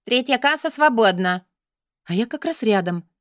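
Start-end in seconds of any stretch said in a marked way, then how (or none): 0.0-1.4 loud announcement. Acted. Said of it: "громкое объявление".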